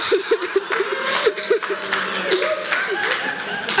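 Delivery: high, breathless burst of laughter. Real, not acted. Telling of the name badge, high laughing fit. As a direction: laugh helplessly at the coincidence.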